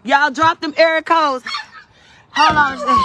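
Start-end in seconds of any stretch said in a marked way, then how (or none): 2.3-3.0 high startled call; much higher, startled halt; sudden alarm. Real, not acted. Sudden interruption off camera.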